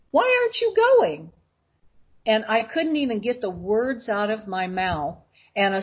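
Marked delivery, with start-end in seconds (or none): 0.1-1.3 imitating a mother's high, insistent question; urgent mother. Mother to daughter stopped at green light, high and urgent. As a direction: pitch leaps up, pressing for an answer.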